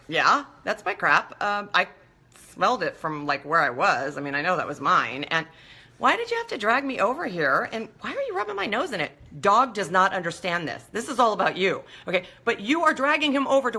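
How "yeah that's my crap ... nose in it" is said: voicing the dog. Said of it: "the dog, meanwhile, is like".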